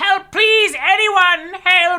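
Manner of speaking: tiny shrill voice, very high-pitched, very loud, pleading cry. Voicing a gnome calling out in the forest: small voice calling for help. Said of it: "the sound of a, a small voice is".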